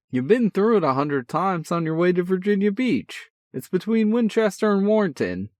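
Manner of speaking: put-on high, loud, brash older brother voice; a cocky big brother, full of energy. A narrator's reading. Older brother teasing on the phone, brash and cheerful. Sean voice again.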